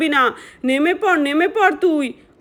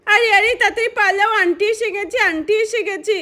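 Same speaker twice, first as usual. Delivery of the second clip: urgent warning; 5 semitones higher than usual. Acted. Kids warning aunt is coming.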